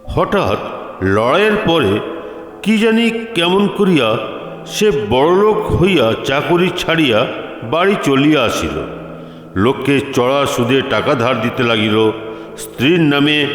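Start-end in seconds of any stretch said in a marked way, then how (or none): none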